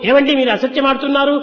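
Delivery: mildly harsh mock accusation; firm, harsh rebuke. Shown as a demonstration. Wife accusing husband at the office, mildly harsh. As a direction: confront him firmly, without shouting. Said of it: "అని గట్టిగా చెప్తే".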